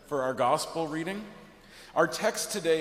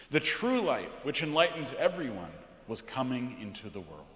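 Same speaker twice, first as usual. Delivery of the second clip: measured, weighty liturgical reading; solemn scripture reading; 3 semitones lower than usual. Acted. Pastor reading John's prologue from the pulpit, solemn.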